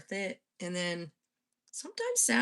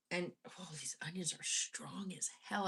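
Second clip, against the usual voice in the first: muttered under the breath; quietly to herself; whispered aside; 6 dB quieter than usual. Real, not acted. Whispered aside while chopping onions.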